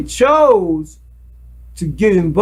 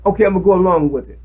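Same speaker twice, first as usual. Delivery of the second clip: quick choice; 2 semitones lower, much faster than usual. Shown as a demonstration. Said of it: "You must make that decision".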